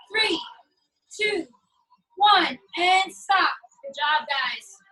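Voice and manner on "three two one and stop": loud slow stop call. Real, not acted. Trainer calls end of interval.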